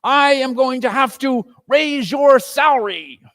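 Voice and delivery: loud, high joyful reveal; spring the surprise; old boss delighted with his joke; gleeful Scrooge. A narrator's reading.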